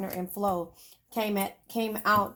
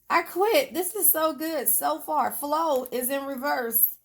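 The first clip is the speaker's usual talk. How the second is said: excited; 5 semitones higher, slower than usual. Real, not acted. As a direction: throw up your hands, delighted. Laughing at reversed cards.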